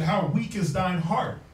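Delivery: slow, solemn scripture reading; slow solemn reading of the verse. Shown as a demonstration. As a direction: read the verse slowly, like old King James English. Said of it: "it said".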